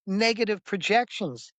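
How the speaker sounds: fervent retold declaration; emphatic insistence. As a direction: drive each point home, voice up. Continues acted insistent reply.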